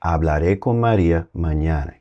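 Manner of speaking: "hablaré" said firmly with weight; firm, emphatic reply to the nagging; emphatic future. Shown as a demonstration. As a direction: insist with "hablaré con María mañana". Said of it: "giving that little emphasis".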